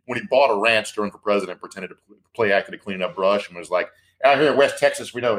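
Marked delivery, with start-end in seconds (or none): 4.2-5.4 mock folksy Texan. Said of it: "that's not how you fucking talk".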